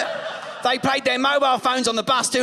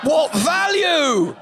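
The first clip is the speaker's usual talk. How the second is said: laughing shout; 3 semitones higher, much slower than usual. Real, not acted. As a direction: drag it out, laughing and indignant.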